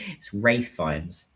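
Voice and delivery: "Rafe" rhymes with safe, said slowly; corrected name pronunciation. Real, not acted. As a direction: slowly restate "Rafe" with a long A. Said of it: "Why did I say Ralph".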